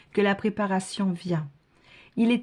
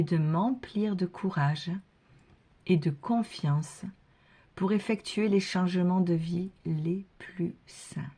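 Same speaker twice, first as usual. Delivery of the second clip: said more gently. Shown as a demonstration. Reader repeating the prayer gently for viewers to follow. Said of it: "je la répète plus doucement".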